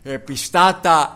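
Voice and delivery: loud, slow, drawn-out cry of "Επιστάτα"; desperate call. Retold or imitated. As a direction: call out "Επιστάτα" slowly, like waking someone in a storm. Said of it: "του λένε". (δυνατή, αργή κραυγή «Επιστάτα»)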